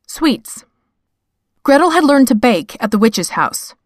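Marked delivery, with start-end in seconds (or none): 0.1-0.6 whisper. Acted. Section title whispered.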